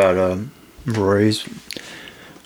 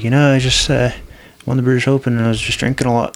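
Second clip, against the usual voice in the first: a light mock Irish accent, a bit louder and higher; casual imitation of an Irish pro in a light Irish accent; 4 semitones higher, 4 dB louder than usual. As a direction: do the Irish golfer in a loose, jokey Irish lilt. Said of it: "like, in his Irish accent".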